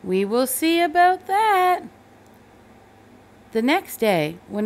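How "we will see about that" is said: higher, louder firm mother; a mother promising a showdown; mother's threat. A narrator's reading. Mother answers Thomas's refusal, firm and warning. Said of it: "Thomas's mother said".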